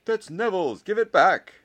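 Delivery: high, loud indignant yell; shout. A narrator's reading. Ernie demands Neville's ball back, shouting. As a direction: yell a demand across the field. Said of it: "shouted Ernie".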